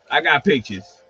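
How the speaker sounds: repeats it while laughing. Real, not acted. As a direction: chuckle through the brag.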